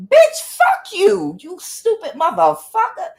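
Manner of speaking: high, loud, drawn-out cursing; retold angry blow-up, hitting each word; losing it. Woman replaying her reply to sister's attacks, losing it. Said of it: "I would lose it".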